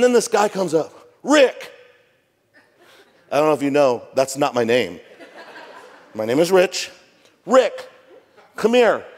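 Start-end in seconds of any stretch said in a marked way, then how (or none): 1.2-1.7 calling out. Retold or imitated. Biker calls pastor over. 7.5-9.0 calling out. Retold or imitated. Biker summons the pastor.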